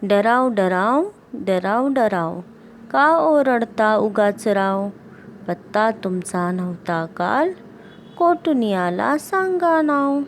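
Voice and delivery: slow singsong refrain, endings stretched; poem recitation. Acted. Teacher reading the frog poem to pupils, slow singsong recitation.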